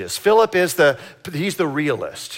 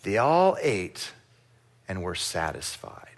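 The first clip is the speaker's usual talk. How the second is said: soft repeat; 5 semitones lower, 6 dB quieter than usual. Shown as a demonstration. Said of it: "repeated softer for emphasis".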